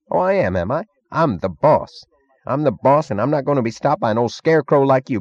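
belligerent boast. A narrator's reading. Meggs telling Stadler who is boss, belligerent. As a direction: throw your weight about, voice up.

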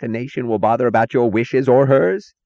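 heated shout, pitched high; screamed. A narrator's reading. Taggart rebuking an employee over the nation's needs, screamed. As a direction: shout it as an outraged challenge. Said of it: "screamed Taggart".

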